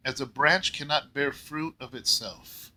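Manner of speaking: measured, lightly formal Bible reading; scripture reading. Acted. Pastor reading Jesus' words to the congregation, measured. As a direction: read the verses with gentle weight.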